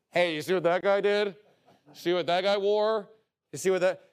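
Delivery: lightly voiced gossiping talebearer; a hint of a nosy gossip. Talebearer gossiping to others about a guy, lightly mocked. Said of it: "what you shouldn't be doing?".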